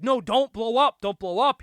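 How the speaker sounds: high, loud mock begging; frantically beg, hammed up; play-acted alarm, punched loud; mock panicked plea. Acting out frantic plea to the bomb.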